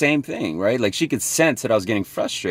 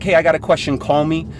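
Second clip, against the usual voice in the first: prospect's voice; 6 semitones higher, 3 dB louder than usual. Retold or imitated.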